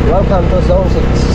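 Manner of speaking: slow grand announcement; announcer voice. Pretend. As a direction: draw it out like a host. Announcing arrival at zone. (mabagal na boses ng tagapagpahayag)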